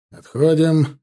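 loud, firm order to withdraw; narrated military command; officer's command. A narrator's reading. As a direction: call it out to the whole squadron. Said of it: "скомандовал он".

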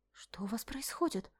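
breathless alarmed whisper; gasped whisper. A narrator's reading. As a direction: gasp it out softly in shock. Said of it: "охнула Мишель".

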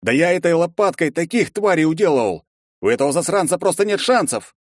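high, loud cocky boast; boastful bravado. Acted. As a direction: brag to work up courage. Герой хвастается перед боем. (хвастливая бравада)

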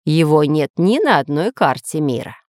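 low-pitched measured reply; calm. Acted. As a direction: state it evenly. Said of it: "спокойно ответил Семён Семёныч".

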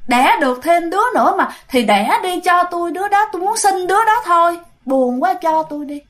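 a lightly voiced, forlorn ghost explaining herself; pleading ghost woman. Ghost woman explains her loneliness to the little man, plaintive pleading. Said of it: "xong cái bà dòm lên bà nói".

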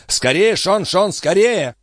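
pressing high-pitched cry; calling out. A narrator's reading. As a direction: urge someone to hurry. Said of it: "крикнул".

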